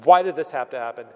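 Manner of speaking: hammed-up indignant complaint, quickening; angry Jonah. Jonah complaining to God, mock angry and fast. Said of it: "Jonah's so angry".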